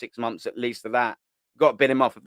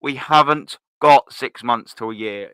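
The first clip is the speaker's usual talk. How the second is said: emphatic slow retort; 2 semitones lower, 7 dB louder, slower than usual. Real, not acted. Answers the imitated excuse.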